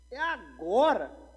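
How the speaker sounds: loud, high, drawn-out exclamation; swooping, hammed-up "this is my moment"; triumphant resolve. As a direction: belt it out slowly, seizing the big chance. Retold reaction, repeated with escalation.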